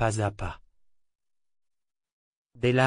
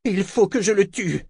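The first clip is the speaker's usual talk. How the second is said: grating voice; 9 semitones higher, 4 dB louder than usual. A narrator's reading. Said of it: "d'une voix grinçante".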